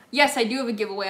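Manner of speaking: normal talking voice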